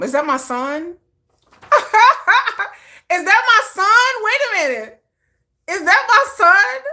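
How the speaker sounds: high, loud, giddy mock mom calling out; hammed-up proud mom gasping at her son; excited proud mom. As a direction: squeal it like a thrilled mother spotting her son. Playful proud mom voice exclaiming.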